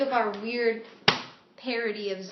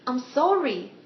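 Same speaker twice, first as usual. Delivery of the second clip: repeated apology; 3 semitones higher, 5 dB louder, slower than usual. Acted. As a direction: get "sorry" out in one go. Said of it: "One more time".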